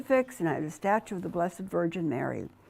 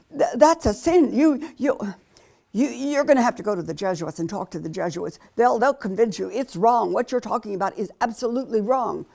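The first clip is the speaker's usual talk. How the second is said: angry insistence; 3 semitones higher, 6 dB louder than usual. Retold or imitated. Fiancé angry about sin.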